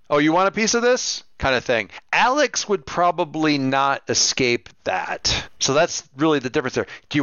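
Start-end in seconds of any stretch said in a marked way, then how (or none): 0.1-1.2 higher, taunting challenge; jeering Serge squaring up to a smaller guy; mock confrontational jeer. GM voicing Serge rounding on Sync, mock taunt. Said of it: "Serge rounding on him and like".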